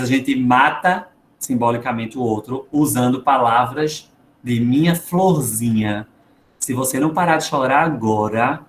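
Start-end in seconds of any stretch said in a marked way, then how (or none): 4.6-8.6 drawn-out pet name, then a controlled warning; sweet words used as a threat; veiled threat. Acted. Parent warning a crying child, veiled threat. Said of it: "E a gente é ameaçador".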